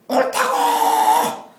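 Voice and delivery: high, strained cry pushed out on breath, very drawn out; stretched-out breathy protest; indignant retort. Retold or imitated. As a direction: fling it back at God like a wounded, defiant child. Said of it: "그 느낌을 아시겠죠?".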